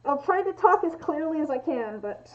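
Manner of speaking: muffled through a respirator; through an n95 mask. Real, not acted. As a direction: speak behind a face mask. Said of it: "difficult to understand me with the respirator on".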